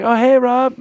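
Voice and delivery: high, bright mock surprise; surprised greeting. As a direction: act startled to see him. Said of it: "I was like".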